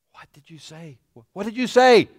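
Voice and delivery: growing mock confusion.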